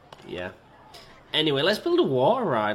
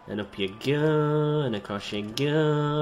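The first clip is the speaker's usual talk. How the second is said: sing-song. Pretend. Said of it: "I don't know why I'm speaking like this".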